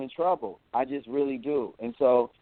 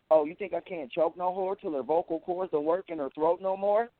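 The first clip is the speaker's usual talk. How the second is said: put-on quoting a rapper's old lyrics; 5 semitones higher than usual. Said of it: "I heard him go from that to".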